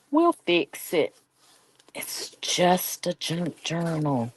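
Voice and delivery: slow whispered reassurance. Real, not acted. Crafter calming herself over a short cut, slow whisper. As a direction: whisper it to yourself, unbothered.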